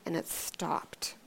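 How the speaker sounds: slow, near-whispered awe; hushed. Retold or imitated. Preacher tells how the car halted at the ditch, hushed. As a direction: drop to a slow, breath-soft hush. Suspense climax of car story.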